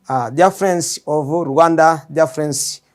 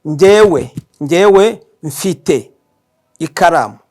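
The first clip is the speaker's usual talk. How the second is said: louder model of Njewe mfite ikaramu; example sentence; 6 dB louder, slower than usual. Shown as a demonstration. Teacher gives learners an example sentence, loud and clear. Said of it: "I can say".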